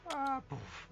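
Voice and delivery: high-pitched little "ah, poof"; falling impact noise. Acted. Game master voices the second creature hitting bottom, high imitated impact.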